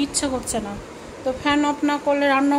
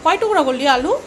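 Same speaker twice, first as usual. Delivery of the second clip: raised, louder questioning call; 7 dB louder than usual. Real, not acted. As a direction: call across to someone in the house. Calls out to daughter about potatoes. (চড়া গলায় ডেকে জিজ্ঞেস)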